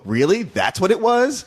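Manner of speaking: slow, high disbelieving really; incredulous. Retold or imitated. A viewer let down by the flashback reveal, incredulous. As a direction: let the letdown sink in. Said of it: "you go".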